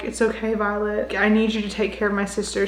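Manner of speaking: soft, calm dying friend. Acted. Dying Liam calmly comforting Violet, softly. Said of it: "And so Liam is calm".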